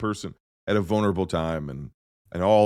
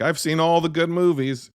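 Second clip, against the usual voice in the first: higher-pitched, self-satisfied film nerd; film nerd boast; 9 semitones higher than usual. Acted. Film nerd bragging about a year-end catch-up, boastful. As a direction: crow like a movie buff showing off. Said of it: "do the film nerd thing and be like".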